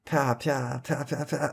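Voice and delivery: high, soft little "pia" noises; mocking Scarlet Witch imitation. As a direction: imitate feeble magic sound effects, high and quiet. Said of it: "I then heard your Scarlet Witch".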